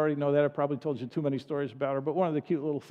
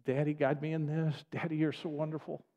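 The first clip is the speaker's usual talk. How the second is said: tender prayer; 2 semitones lower, 4 dB quieter than usual. Retold or imitated. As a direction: call out gently like a trusting child. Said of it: "crying out".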